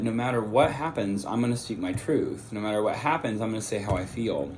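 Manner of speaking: slight lisp from a cough drop; cough drop in mouth. Real, not acted. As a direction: talk around a cough drop. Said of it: "Excuse my lisp. I have a cough drop in my mouth".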